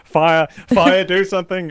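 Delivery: half-playful urgent warning; alarmed pug Lassie. Retold or imitated. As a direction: raise the alarm like a TV rescue dog. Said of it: "runs in the room like Lassie".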